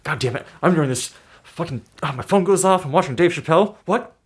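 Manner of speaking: high, laughing mock panic; imitating audience member. Retelling the Chappelle bit, squealing laughing mock voice. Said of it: "He's all like".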